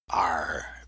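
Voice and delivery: pirate arr. Acted. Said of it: "Benson replied".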